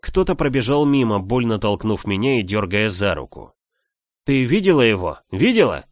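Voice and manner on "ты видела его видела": raised urgent voice; shouting over the noise. Acted. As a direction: call out over the roar. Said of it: "Голос Криона вторгся".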